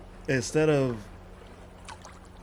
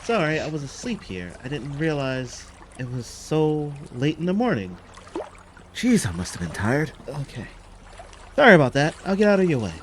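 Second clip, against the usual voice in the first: higher, rising to a loud sorry; apologize, flustered and getting louder; sheepish apology; 5 semitones higher, 3 dB louder than usual. Acted. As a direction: Ronnie apologizing to the red-faced sailor. Character apologizing to embarrassed sailor.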